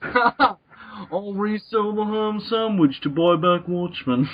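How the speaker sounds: put-on slow, quiet mumbling old writer; Alan Moore impression. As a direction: drawl it out like a weary crank. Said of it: "this Alan Moore impression".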